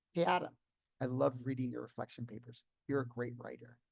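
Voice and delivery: offhand retold compliment, easing down after the greeting; nonchalant. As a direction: toss the praise off casually in passing. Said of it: "very nonchalantly said".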